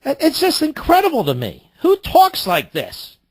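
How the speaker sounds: high, incredulous outrage, dragging out the words; exasperated disbelief. Real, not acted. Radio host reacting to a guest's clip, high-pitched disbelief. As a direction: sound appalled and amazed at once.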